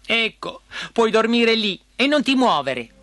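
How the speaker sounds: high, huffy princess voice; irritated order. A narrator's reading. Princess dumping frog on sofa, irritated order. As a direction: order the frog to stay put.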